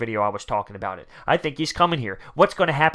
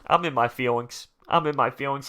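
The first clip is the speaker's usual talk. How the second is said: ordinary delivery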